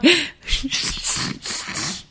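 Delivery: a high suppressed giggle squeaking out; stifled laugh. Real, not acted. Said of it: "when I'm trying not to laugh".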